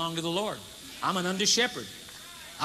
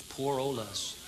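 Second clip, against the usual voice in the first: mock self-pity, softer; 10 semitones lower, 9 dB quieter, slower than usual.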